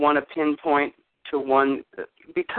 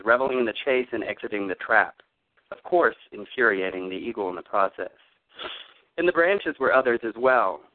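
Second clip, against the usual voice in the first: story narration; 2 semitones lower than usual. A narrator's reading. Story reading from his book.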